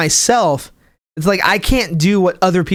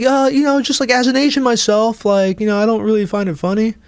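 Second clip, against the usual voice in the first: higher, lightly voiced snooty commenter; a hint of a smug know-it-all; mocking the commenter; 4 semitones higher than usual. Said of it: "he was like".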